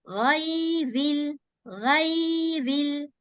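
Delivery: ghayril with light ra under kasra. Shown as a demonstration. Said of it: "Can you notice, sister? See the ra".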